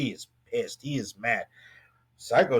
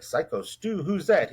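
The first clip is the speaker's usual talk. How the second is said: puzzled retold question, pitch rising higher; confused; 4 semitones higher than usual. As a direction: imitate a confused guy asking who that is.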